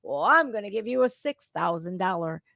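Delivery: a hint of a mock politician voice; Kamala Harris. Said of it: "What does Kamala Harris do?".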